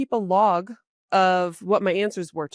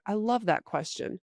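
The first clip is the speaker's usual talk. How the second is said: soft, even I love that question; relaxed sincere stall; calm placeholder; 5 dB quieter than usual. Shown as a demonstration. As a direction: say I love that question quietly to buy time. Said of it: "you can put in the placeholder".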